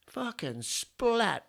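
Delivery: high, drawn-out splat; comic splat. Acted. Telling a pub joke, a slow, high, comic splat. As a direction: stretch the splat for laughs.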